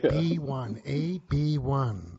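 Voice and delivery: loud, slow drawn-out bingo call; bingo caller. Pretend. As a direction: stretch out the numbers like a bingo hall caller. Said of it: "sound like a bingo caller".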